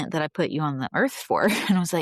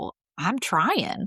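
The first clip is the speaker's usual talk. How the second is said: sassy, tossed-back delivery; 3 semitones higher than usual. Retelling how a prayer got answered: sassy Jesus voice. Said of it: "sassy Jesus".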